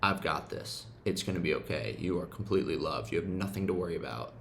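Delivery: put-on soothing inner child. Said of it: "told him".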